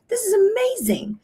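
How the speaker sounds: high, delighted exclamation; light up like a farmer seeing results; amazed farmer. Retold or imitated. Farmer sending pictures of his side-by-side trial, delighted.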